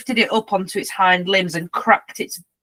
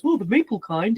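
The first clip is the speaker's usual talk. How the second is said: lightly voiced talking dog; talking dog impression. Dog hearing about treats, lightly imitated voiceover. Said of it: "That was such a good impression".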